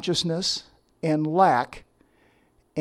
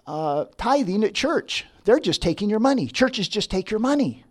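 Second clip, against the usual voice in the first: chiding friend; 4 semitones higher than usual. Retold or imitated. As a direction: scold her for wasting money on church. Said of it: "she would chide me and say".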